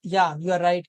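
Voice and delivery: low hesitant hum before agreeing; mild pause for thought, low pitch; thinking aloud. Shown as a demonstration. Teacher showing a filler word used mid-thought, thinking aloud. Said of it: "बोलते-बोलते सोचने लगे तो कहते हैं".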